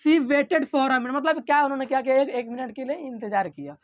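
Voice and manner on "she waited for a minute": very slow, word by word for notes; slow dictation. Shown as a demonstration. Teacher dictating slowly to the class for notes. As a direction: read it out slowly so students can write. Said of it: "पहला example क्या है".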